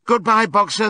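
loud, high call of goodbye; chorused farewell. A narrator's reading. Animals crowding round the van to Boxer, chorused farewell. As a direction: call out like a crowd seeing someone off. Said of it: "they chorused".

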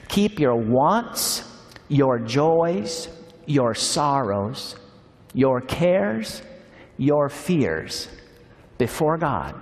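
slow, weighted reading of a list; reading to a congregation, each word weighed; slow devotional reading. Acted. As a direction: lay each item down slowly.

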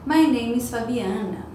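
slow, clear "My name is Fabiana."; teacher giving her own example answer; model answer. Shown as a demonstration. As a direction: say it slowly for students. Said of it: "pra eu responder".

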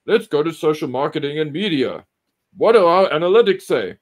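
pompous boss voice; hammed-up corporate boss; Hasbro exec. Acting Hasbro executive.

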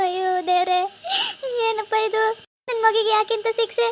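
tearful cry to God; crying lament. Acted. Mother asking God why her daughter is punished, crying lament. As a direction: sob out the question to God.

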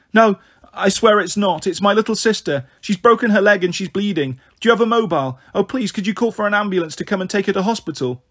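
put-on a frightened child begging a stranger; desperate plea. Girl begging stranger for help.

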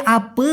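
"আপে" with a long, dull final vowel instead of "আপা"; slang vowel. Shown as a demonstration. Teacher showing the changed ending, drawn out. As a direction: drag out the end of "আপে". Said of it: "এভাবে".

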